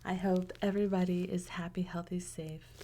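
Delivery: gentle whispered farewell; whispered wish. Real, not acted. Host wishing viewers well, whispered. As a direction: whisper your good wishes.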